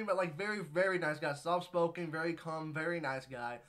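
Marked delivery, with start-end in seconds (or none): 1.3-3.6 wheezing a little while talking; slight wheeze on each breath; wheezy voice. Real, not acted. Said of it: "I'm wheezing a little bit".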